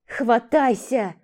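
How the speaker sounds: slow, drawn-out shout. Acted. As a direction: drag out the command. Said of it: "закричала она".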